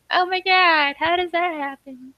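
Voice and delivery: high-pitched disbelief; playful mock astonishment; acted freak-out. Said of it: "and she's freaking out".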